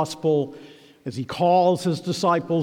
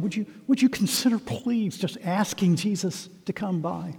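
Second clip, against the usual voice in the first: higher, softer, tentative asking; hesitant polite request; 4 semitones higher, 4 dB quieter than usual. Shown as a demonstration. Preacher showing Bartimaeus not asking bystanders, meek and hesitant. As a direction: ask timidly, as if afraid to bother them. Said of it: "He didn't say to those standing around him".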